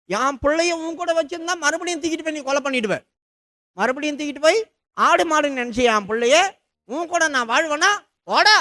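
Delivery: a mother snapping at her husband to get out; angry wife. Retold or imitated. Sarah furious at Abraham. (கோபமான மனைவி, உயர்ந்த உரத்த குரல்)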